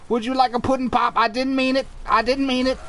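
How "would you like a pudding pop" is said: quick, sing-song hint of Cosby again offered; lightly voiced Cosby, repeating the offer fast; Cosby pudding pop voice. Player repeating the pudding pop offer in Cosby voice. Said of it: "Bill Cosby freaks me".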